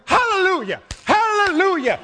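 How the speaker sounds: high, exuberant cry of praise; imitated hallelujah shout. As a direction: cry out like a worshipper leaping up. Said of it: "just started, goes".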